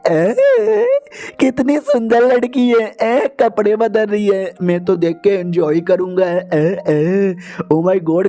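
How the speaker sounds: a hint of a slow, leering pervert; leering creep. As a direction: drool over her, drawn out. Lecher ogling changing girl. (हल्का सा ललचाया हुआ आवारा)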